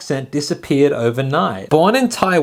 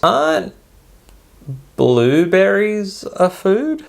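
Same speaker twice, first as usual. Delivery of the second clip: puzzled disbelief; 4 semitones higher, slower than usual. Real, not acted. Doubts the blue food claim.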